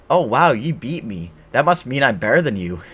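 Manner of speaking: exaggerated mock amazement; mocking imitation. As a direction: parody a clueless boaster, loudly. Mocking how game opponents react.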